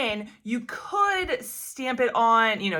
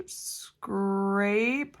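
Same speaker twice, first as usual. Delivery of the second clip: ordinary talk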